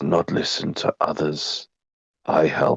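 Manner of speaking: lizard creature whisper in broken speech. Game master voicing a drowning lizard to the player helping it; whispering in broken Common. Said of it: "it just kind of whispers to you in broken common".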